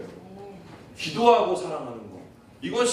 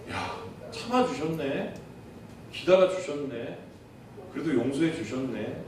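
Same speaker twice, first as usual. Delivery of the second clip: moved realization; 4 dB quieter than usual. Retold or imitated. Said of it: "그분들 사랑이 느껴져요".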